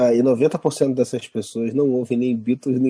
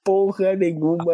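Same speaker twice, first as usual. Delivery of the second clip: worked-up rant; 8 semitones higher than usual. Real, not acted. Mocking studio excuses, heated.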